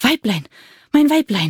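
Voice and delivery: panting, out of breath. Narrating a kobold running up to his kobold wife, panting, out of breath. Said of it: "blieb er keuchend".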